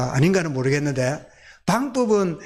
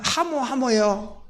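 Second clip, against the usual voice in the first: very slow Gyeongsang "하모, 하모요"; 경상도 사투리로 아주 느리게; Gyeongsang dialect; 5 semitones higher, much slower than usual. Shown as a demonstration. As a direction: drawl out the Gyeongsang yes. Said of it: "우리 경상도 말로".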